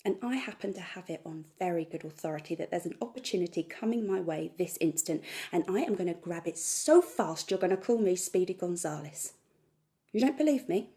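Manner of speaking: very loud, worked-up declaration; fired-up, emphatic ranting; defiant rant. Acted. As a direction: hammer it out loudly, daring them to watch. Rant builds to a dare.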